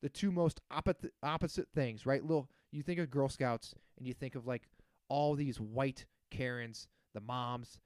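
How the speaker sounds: heated rant; building irritation; getting worked up. Real, not acted. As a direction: vent like it really bugs you. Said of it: "getting worked up".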